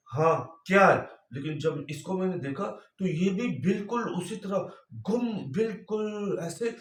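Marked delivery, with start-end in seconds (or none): 0.1-1.1 irritated, louder "what is it?"; annoyed snap. Retold or imitated. Husband snapping back at wife who interrupted his prayer, irritated. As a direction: bark it back, fed up at being disturbed. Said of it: "मैं गुस्से से".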